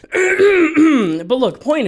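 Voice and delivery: high, loud call for attention. Real, not acted. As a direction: grab them back to the point. Snaps back to the point.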